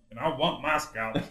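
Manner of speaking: slow, drawn-out trailer quote, lightly voiced; imitated film voice. Podcaster feeding a co-host the line, slow light imitation. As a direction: quote the movie hero slowly, as a model. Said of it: "do his voice".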